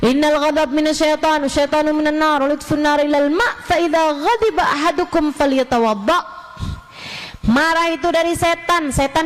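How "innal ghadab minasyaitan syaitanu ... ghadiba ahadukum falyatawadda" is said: hadith recitation. Shown as a demonstration. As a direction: recite the Arabic hadith evenly. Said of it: "yang katanya Nabi Muhammad".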